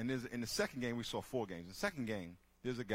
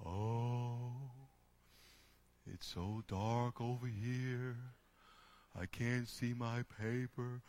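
whiny complainer; much slower than usual. Retold or imitated. Voicing a whining complainer.

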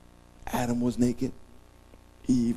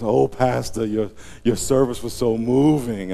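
gushing woman; 3 semitones higher, 5 dB louder, slower than usual. Retold or imitated. Women praise pastor.

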